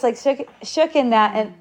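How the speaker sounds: usual speaking voice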